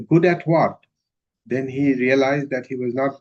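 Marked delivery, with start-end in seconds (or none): 0.1-0.8 puzzled retort. Retold or imitated. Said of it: "And then she said".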